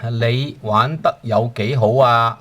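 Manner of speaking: 你玩得有幾好啊 said slowly and evenly; slow teacher demo; slow model sentence. Shown as a demonstration. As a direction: model the question slowly for the class. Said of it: "How well do you play?".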